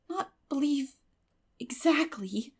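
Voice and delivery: hesitant, breaking off mid-phrase; faltering. A narrator's reading. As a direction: falter and lose your nerve. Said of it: "faltered Anne".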